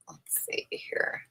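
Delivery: half-whispered to herself, slowly; muttered aside. Real, not acted. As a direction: drop to a breathy aside while looking. Muttering while searching notes.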